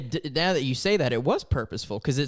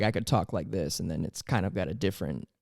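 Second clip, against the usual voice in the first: low, softer demonstration voice; talking low; 6 semitones lower, 6 dB quieter than usual. Shown as a demonstration. Showing co-host the low voice, talking low. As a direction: drop down to the bottom of the register. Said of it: "if I talk low".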